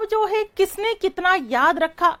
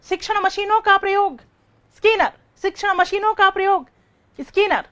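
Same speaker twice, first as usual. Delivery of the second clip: rapid-fire quiz. Shown as a demonstration. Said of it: "आप जवाब देते जाना फटाफट".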